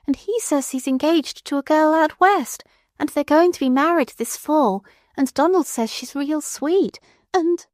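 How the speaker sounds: put-on high, gentle trembling old aunt; a lightly voiced tearful old aunt; quavering old lady. A narrator's reading. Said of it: "Aunt Crete's quavering voice".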